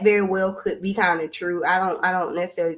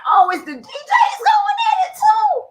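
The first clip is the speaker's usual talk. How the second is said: excited shout. Retold or imitated. Telling friends how she reacted when the DJs clashed, high excited shout. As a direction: yelp it out in a high shout like it just clicked. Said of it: "I was like".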